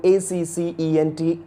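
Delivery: accent with a k sound, AK-sent; accent with k then s in the middle; British pronunciation. Shown as a demonstration. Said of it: "I'm sticking for the British accent".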